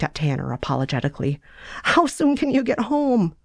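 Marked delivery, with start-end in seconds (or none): 1.8-3.4 higher, urgent little sister; Fanny's voice. Acted. Fanny urging Sarah home, higher urgent voice. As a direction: push her to come home, pitched up.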